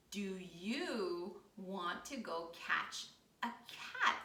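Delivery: slow, spaced-out doggy question; dog character. Pretend. Storyteller as dog inviting the spider, slow dog character. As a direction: ask it slowly, lightly voicing a storybook dog. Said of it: "and the dog says".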